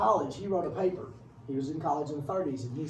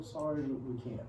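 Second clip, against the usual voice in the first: mock apology; 2 semitones lower, 8 dB quieter than usual. Voices America declining the plea.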